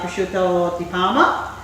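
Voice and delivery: light hammed-up Italian accent on prosciutto di Parma; a touch of Italian accent on the food name; mock Italian accent. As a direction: roll it out like a would-be Italian chef. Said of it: "That's my attempt at an Italian accent".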